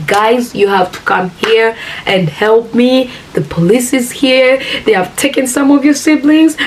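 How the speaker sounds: retold panicked plea, pitch climbing; mildly panicked mother begging for help; panicking. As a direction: plead for help with rising alarm. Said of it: "Mommy was panicking".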